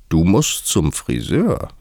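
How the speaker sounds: lightly voiced Hatter, slow and drawn out; a hint of a quirky hatter; blunt Hatter. A narrator's reading. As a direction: say it slowly as an odd, blunt character. Hatter's put-on voice, blunt remark.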